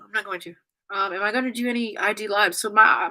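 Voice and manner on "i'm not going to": steadying herself. Real, not acted. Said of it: "I'm trying not to cry".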